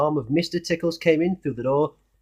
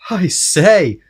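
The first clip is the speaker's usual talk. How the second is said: laughing; 6 semitones higher, 8 dB louder than usual. Acted. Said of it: "laughed Mister Happy".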